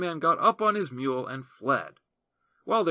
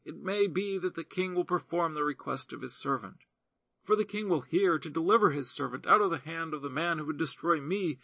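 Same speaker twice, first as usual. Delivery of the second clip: a hint of a higher, earnest woman's voice; lightly voiced widow reasoning; 4 semitones higher than usual. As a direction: press the king with humble conviction. Widow argues with the king.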